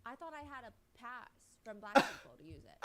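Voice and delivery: loud mocking read of the quote; hammed-up loud quote. Host quoting Dog's interview, mock loud. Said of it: "he later states in an interview".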